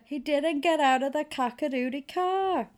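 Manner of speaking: hammed-up indignant protest; indignant outburst. Acted rant from the story.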